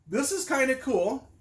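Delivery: a hint of a dog savouring a discovery; dog's delighted voice. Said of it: "and they go".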